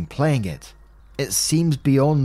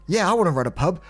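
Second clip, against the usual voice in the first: eager agreement; 5 semitones higher, faster than usual. Retold or imitated. Retold TV friend accepts pub offer.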